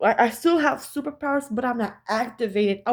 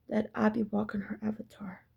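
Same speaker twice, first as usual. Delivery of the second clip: whispered; 6 dB quieter than usual. Real, not acted. Revealing secret meaning, whispered.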